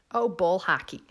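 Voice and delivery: lightly imitated Upper Midwest accent; imitating a Midwestern cousin's accent; Midwest Siri accent. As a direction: do a mild folksy Midwestern accent. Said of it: "I can hear my cousins when".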